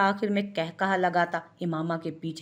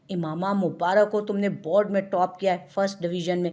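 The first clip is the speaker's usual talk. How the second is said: lightly voiced excited sister hugging her cousin; enthusiastic. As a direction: burst in with happy news. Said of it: "पुरजोश अंदाज में".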